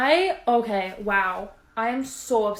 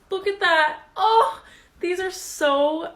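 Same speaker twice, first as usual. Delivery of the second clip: higher, crying and laughing; tearful joy; 6 semitones higher, 4 dB louder than usual. Real, not acted. Gushing over new shoes, near tears with joy. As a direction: choke up with happiness. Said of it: "I'm literally gonna cry".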